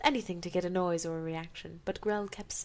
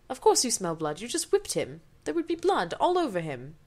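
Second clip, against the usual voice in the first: exasperated rant; 3 semitones higher, 5 dB louder than usual. Real, not acted. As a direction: scoff at the obvious. Reader mocks the story logic.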